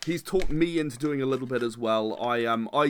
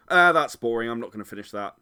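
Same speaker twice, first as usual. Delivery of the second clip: bored advertiser; 2 semitones lower than usual. Acted. Advertiser abandoning the ad halfway through, bored. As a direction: give up on the script halfway, trailing away. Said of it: "halfway through it and go".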